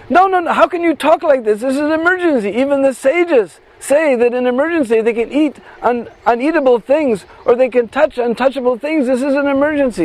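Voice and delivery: insist, half-voiced friend; lightly voiced urgent girl. Bisakha protests the refusal.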